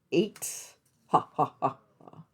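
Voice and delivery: number, pause, then staccato ha-ha-ha; playful mock-laugh after the count; Sesame Street counting voice. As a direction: count it off like a kids' TV puppet. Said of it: "feel like I'm, like, on the Sesame Street".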